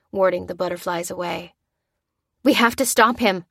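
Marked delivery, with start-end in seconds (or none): 2.4-3.5 raised, urgent call to act; urgent cry. Acted. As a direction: cry out to rally them. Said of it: "cried Lucy".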